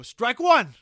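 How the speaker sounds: loud, high umpire bellow; umpire's call. Acted. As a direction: call it like an ump behind the plate. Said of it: "you hear an ump go".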